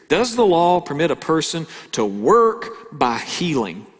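put-on measured, formal question with a British accent. Preacher replays the Pharisees' question to Jesus, formal British accent. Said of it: "notice the formal question here".

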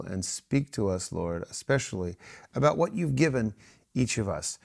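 softly spoken group prayer. Acted. Leading the home group in prayer, softly. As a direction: pray quietly, asking for guidance.

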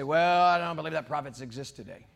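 low, dismissive imitation of a doubter; mock sceptic. People doubting prophets exist today, mocking low imitation. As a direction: pitch it down as a put-on naysayer.

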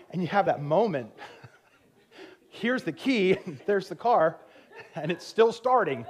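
can't believe it, laughing it out; laughing disbelief. Real, not acted. Laughing retelling the stuck car.

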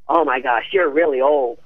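mock the gruff agent's blunt verdict; Eileen Ford's rough voice. Agent Eileen Ford sizing up Nancy, imitated gravelly and blunt. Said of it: "She had this grovelly, rough voice like this".

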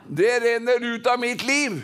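measured declaration to be repeated; leading congregation. Shown as a demonstration. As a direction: proclaim it for the crowd to echo. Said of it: "Kan vi si det?".

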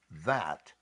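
slow, satisfied and content; slow contented sigh of completion. Shown as a demonstration. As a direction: savour it slowly, fully satisfied. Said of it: "walk away from saying".

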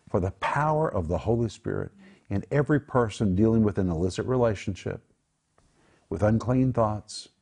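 hushed, heartfelt prayer over the listeners; earnest prayer. Acted. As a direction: pray it like you're interceding for them. Leads a prayer for viewers.

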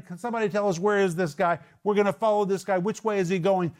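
high, urgent calls; pleading cries to find Jesus; blind men calling out. Acted. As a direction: call out searching for him.

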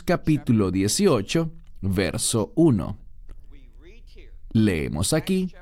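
ordinary delivery

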